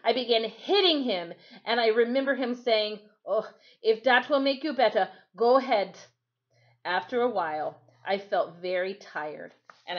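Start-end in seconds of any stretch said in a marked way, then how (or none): 3.3-6.0 louder, patient island voice; Timothy voiced. Timothy lets the angry boy hit him, louder. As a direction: let him, calmly accepting.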